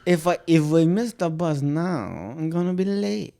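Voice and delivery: slow German accent attempt; tentative German accent, stretched out. Shown as a demonstration. Practising a bus line for a friend, German accent. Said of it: "Do this in German".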